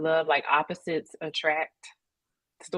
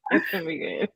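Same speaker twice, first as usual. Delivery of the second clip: whispered repeat, no voice; faster than usual. Real, not acted. Repeats it under breath.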